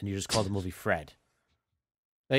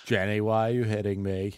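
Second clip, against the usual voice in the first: Forrest Gump voice; 3 dB louder than usual. Retold or imitated. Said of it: "He just calls everyone Jenny".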